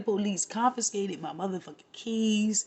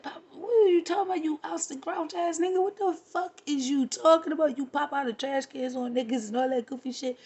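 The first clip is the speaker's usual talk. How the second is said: higher, fast mocking scold; 5 semitones higher than usual. A mild mock scold of the man about trash cans. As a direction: scold him with a mocking edge. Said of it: "I'm like".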